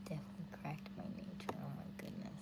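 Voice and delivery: soft unvoiced whisper. Real, not acted. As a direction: whisper it so nobody wakes up. Whispering late at night.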